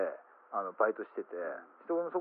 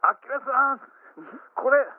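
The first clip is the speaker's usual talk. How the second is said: loud, high-pitched mock shout; hammed-up exasperated yell; retold indignant outburst; 8 semitones higher, 8 dB louder, slower than usual. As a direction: blurt it out loud and high, drawing out the last phrase.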